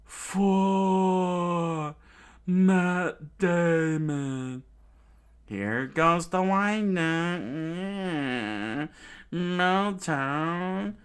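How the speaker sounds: slow, high, loud called out; villain attack call. Acted. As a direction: call the attack like a battle cry. Villain duo attack calls.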